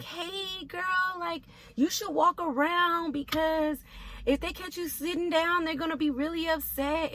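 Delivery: whisper-ish tip-off from a coworker; mock soft nurse warning. Second nurse voiced in story.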